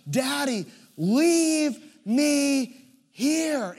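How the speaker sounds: a hurt daughter wailing at her father from the leaves; wailing child. Retold or imitated. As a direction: stretch it out like a sobbing child. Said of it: "She obviously can't get up".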